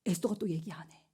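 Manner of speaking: whispered aside; suspense whisper. Real, not acted. Preacher telling the youth in suspense, whispering. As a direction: lean in and whisper. Suspense about Esther's silence.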